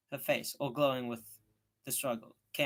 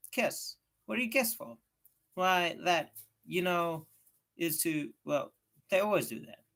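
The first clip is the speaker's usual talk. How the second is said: put-on eager boy, higher and louder, making it sound simple; talking the girl into it; lightly voiced Tom explaining; 4 semitones higher, 5 dB louder than usual. Tom explains being engaged.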